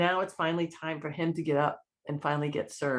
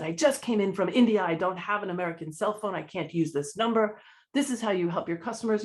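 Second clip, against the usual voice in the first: higher-pitched, bitter complaint; indignant retort; 4 semitones higher than usual. Retold or imitated. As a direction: snap back at the agent, offended. Angry traveler throws card down.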